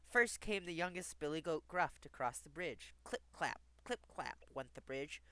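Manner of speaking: measured storybook reading; lilting fairy tale narration; story narration. Acted. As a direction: read a rhyming tale aloud clearly.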